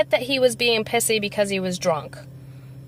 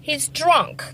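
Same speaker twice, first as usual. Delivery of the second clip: slow realization; 6 semitones higher, much slower than usual. Retold or imitated. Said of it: "I was like".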